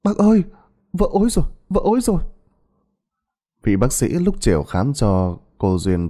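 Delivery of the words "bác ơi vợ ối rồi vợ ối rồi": high, hurried nurse's alert; urgent call. Acted. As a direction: rush to alert the doctor. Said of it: "Cô y tá chạy qua phòng bác sĩ kêu".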